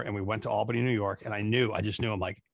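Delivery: normal talking voice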